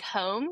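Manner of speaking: "home" said with a Maryland vowel, a rounded drawn-out "oh". Shown as a demonstration. Showing the co-host how she says "home" in a Maryland accent. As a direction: give "home" its Maryland sound. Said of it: "when I say, like".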